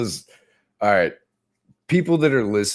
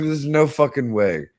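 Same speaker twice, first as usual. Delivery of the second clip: laughing disbelief; 7 semitones higher than usual. Retold or imitated. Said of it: "I was like".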